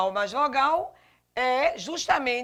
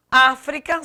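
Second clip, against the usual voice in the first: "África" with a louder first syllable; stress on Á; 6 dB louder than usual. Shown as a demonstration. Teacher showing the tonic syllable, first-syllable stress on "África". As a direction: hit the opening "Á" of "África". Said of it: "sílaba tônica A".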